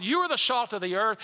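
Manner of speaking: "are" lifted with a rise, rest steady; preacher stresses "are" to show who they are. Shown as a demonstration. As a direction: lean into "are" in "You are the salt of the earth".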